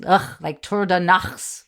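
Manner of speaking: "Nachts" slowly, with a throaty German ch; guttural CKH. Shown as a demonstration. Co-host showing how the CKH sounds, guttural "Nachts". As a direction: scrape the ch in "Nachts" at the back of the throat. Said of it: "the C K H thing is".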